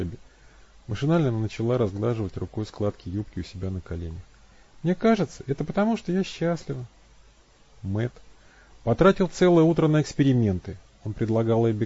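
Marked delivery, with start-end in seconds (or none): 4.8-6.8 much higher, shy admission; voiced Abby, shy. A narrator's reading. Abby confessing to Matt she's happy, shy. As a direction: say it almost guiltily. Abby's high voice.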